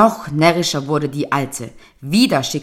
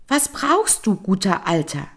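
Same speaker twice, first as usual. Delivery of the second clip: fish voice; 4 semitones higher than usual. Acted. Golden fish voice speaking.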